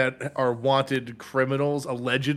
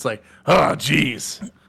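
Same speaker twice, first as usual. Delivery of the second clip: put-on gruff cartoon voice; 5 dB louder than usual. Explaining how to do Grunkle Stan from Gravity Falls: gruff Grunkle Stan voice. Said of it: "you have to do like the gruffness".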